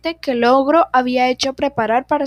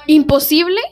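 lightly voiced roaring ogre; a hint of an offended ogre roaring; 4 semitones higher than usual. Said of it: "rugió el ogro muy ofendido".

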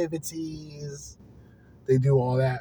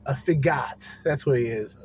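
mock professional. Shown as a demonstration. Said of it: "I'm gonna say it very, like, professional".

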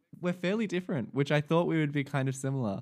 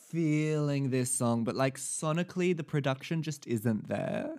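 YouTube reviewer voice. Pretend. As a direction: play a pretentious album reviewer. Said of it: "YouTube music reviewers".

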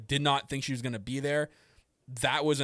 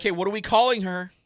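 higher, louder puzzled call; mock-bewildered fan; confused outburst; 7 semitones higher, 7 dB louder than usual. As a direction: ask it baffled, half-laughing. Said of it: "So I'm like".

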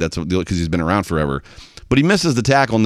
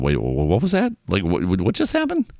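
baffled fan; 2 semitones lower, 3 dB quieter than usual. Retold or imitated. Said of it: "we just sit around going".

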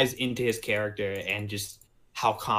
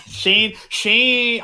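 calling out higher and louder; excited call; 10 semitones higher, 6 dB louder than usual. Real, not acted. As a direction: grab his attention, laughing. Calling friend while laughing.

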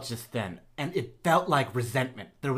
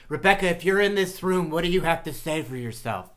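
séance medium; 3 semitones higher than usual. Pretend. Medium summons dead sister.

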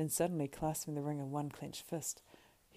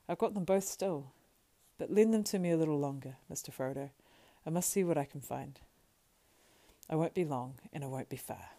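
lightly voiced Sam, a touch louder and eager; loyal, reassuring Sam; 5 dB louder than usual. Sam leaves to search for gear, mildly reassuring. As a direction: reassure him with practical energy.

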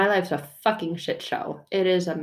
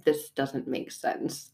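muttered aside; 6 dB quieter, slower than usual. Retold or imitated. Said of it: "and go".

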